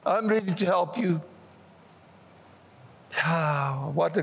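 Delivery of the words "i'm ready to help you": God answering calmly. Acted. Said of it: "And he says".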